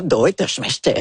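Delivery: Japanese phrase in one's own deep register; low, ordinary-register attempt. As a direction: say it low and matter-of-fact, sure of the accent. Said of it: "avec ma grosse voix".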